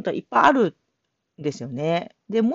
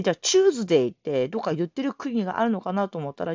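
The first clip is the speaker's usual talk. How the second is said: ordinary delivery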